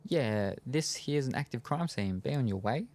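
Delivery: mock Brooklyn cop, lilting up at the end; pretend cop. D'Angelo pretends to be a guard in a dry run, mock cop voice. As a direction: play-act a cop waving someone off.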